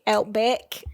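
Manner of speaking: put-on Aussie vowels on one word; mock Australian accent. Shown as a demonstration. Practising with co-host, mock Australian accent. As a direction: try the word in fake Australian. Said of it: "What's your best accent, Australian accent".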